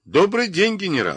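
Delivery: very high, breezy, cheerful delivery. Narrating the security service director greeting the defense minister by phone, cheerful. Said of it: "сказал он весело".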